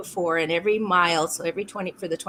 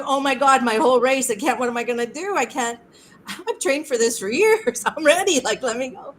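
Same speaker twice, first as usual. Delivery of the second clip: mock distraught wail, higher and louder; retold crying; 4 semitones higher, 3 dB louder than usual. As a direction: act out a tearful protest, half laughing. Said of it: "I'm sitting there crying".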